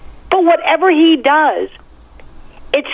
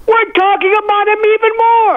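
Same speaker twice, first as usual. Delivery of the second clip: laughing it out, higher pitched; amused laugh through the words; chuckling at the irony; 8 semitones higher than usual. Real, not acted.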